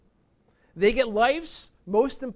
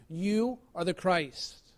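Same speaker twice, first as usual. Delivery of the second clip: slow hushed confession; 2 semitones lower, much slower than usual. Retold or imitated. Peter's confession repeated.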